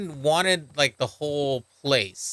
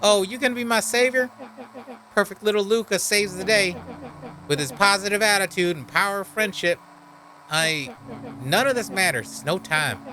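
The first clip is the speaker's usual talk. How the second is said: lightly voiced brooding outcast; a hint of a bitter cursed creature; bitter monster voice; 2 semitones higher than usual. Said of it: "that's the voice I gave him".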